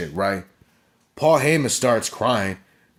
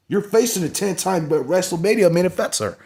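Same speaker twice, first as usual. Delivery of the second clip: mock Roman taunt; 8 semitones higher than usual. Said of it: "was basically what Roman, Roman Reigns is saying".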